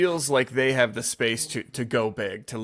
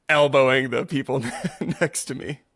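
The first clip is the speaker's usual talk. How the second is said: laughing through the words; amused chuckle; 2 semitones higher than usual. Real, not acted. Yoga teacher jokes about crowding his classmates, chuckling. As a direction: break into a small chuckle mid-phrase. Laughs at own elbowing remark.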